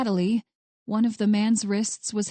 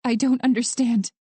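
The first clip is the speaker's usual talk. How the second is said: mildly shocked, bewildered statement; a touch of disbelief; dumbfounded shock; 2 semitones higher, 4 dB louder than usual. A narrator's reading. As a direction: say it stunned, uncomprehending. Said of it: "dumbfounded statements of shock".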